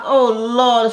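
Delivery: high, loud "Oh, Lord"; exasperated exclamation. Real, not acted. Exasperated aside.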